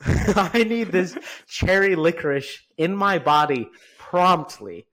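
high, loud, drawn-out craving cry; screaming craving. Retold or imitated. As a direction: beg for licorice, loud and slow. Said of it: "on a July day that screams".

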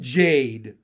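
loud imitation of a call; loud mimicked yell; quoted cry. A narrator's reading. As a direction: blare the name as a question's end. Bullfrog mockingly quotes the cry.

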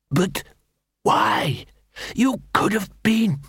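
breathless dying words; words fading as he dies; dying gasp. Acted. Stabbed Cruces asking Carrot why, dying gasp.

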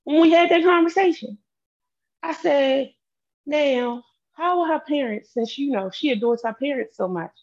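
high, agitated retelling; heated. Real, not acted. Heated retelling, raised pitch.

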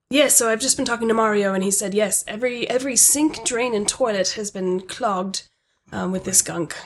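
lightly British manager voice; British accent. Acted. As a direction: slip into a slight British accent. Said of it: "I don't know why I'm suddenly British".

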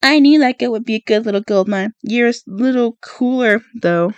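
lightly voiced mocking copy; mimicking Katniss. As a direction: tease her by parroting her words. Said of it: "he begins mimicking me".

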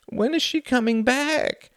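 put-on slow, high little-girl voice; demanding child. A narrator's reading. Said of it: "demanded the child".

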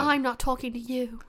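put-on British accent. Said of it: "yeah, like that".

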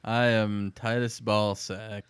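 slow, dejected self-introduction; sad, drawn-out intro; really sad. Real, not acted. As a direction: give your name slowly, as if defeated. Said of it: "you sound really sad".

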